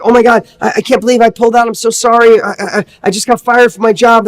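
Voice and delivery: flustered, tripping over the words; nervous apology. Retold or imitated. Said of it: "the person gets out all nervous".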